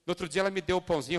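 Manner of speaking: ordinary talk, nothing marked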